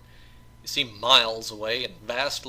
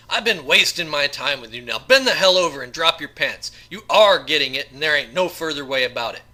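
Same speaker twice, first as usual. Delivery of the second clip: menacing threat; 3 semitones higher, 11 dB louder than usual. Acted. Assassin threatens George in cell.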